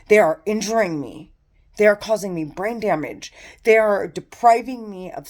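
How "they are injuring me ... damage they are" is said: louder furious complaint; angry outburst. Real, not acted. Listing her injuries to the camera, loud and angry. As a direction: push it out hard and loud.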